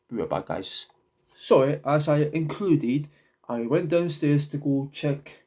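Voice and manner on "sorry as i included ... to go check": breathless after the stairs; winded, catching breath between words. Real, not acted. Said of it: "I'm out of breath".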